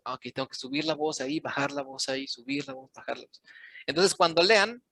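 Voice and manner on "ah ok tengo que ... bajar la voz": softer, quick running note to oneself; muttered self-talk. Acted. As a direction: think aloud under your breath, trailing softer. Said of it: "estoy lidiando con esto a cada rato".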